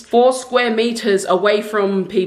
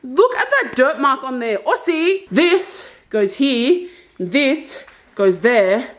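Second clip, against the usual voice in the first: copying an Irish actress's way of talking, unhurried; Catriona Balfe impression; 3 semitones higher than usual. Showing viewers where furniture goes, in a light Irish accent. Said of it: "the reason I'm talking like this is because I was just watching Catriona Balf's live".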